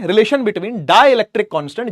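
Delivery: slow dictation. Shown as a demonstration. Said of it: "dictating title".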